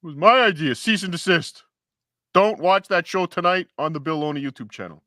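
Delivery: high, hammed-up protest; mock indignation. Co-host objecting to a stolen show idea, mock indignation. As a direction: protest the theft in mock outrage.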